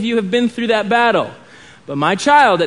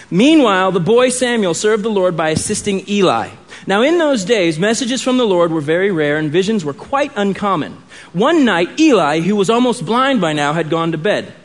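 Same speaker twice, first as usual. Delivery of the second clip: raised, measured Bible reading; scripture reading. Acted. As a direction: read the passage to the congregation.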